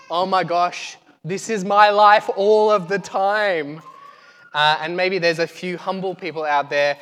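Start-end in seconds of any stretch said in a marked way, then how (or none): 0.1-3.8 drawn-out, louder exasperation; exasperated thought. Acted. Voicing the strong-willed among us, mildly hammed-up exasperation. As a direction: stretch it out like a long-suffering complaint. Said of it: "are thinking".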